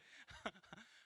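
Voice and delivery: voiceless engine wheeze; imitated car coughing. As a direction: wheeze like a car failing to start. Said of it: "이렇게". (쿨럭대는 엔진 소리 흉내)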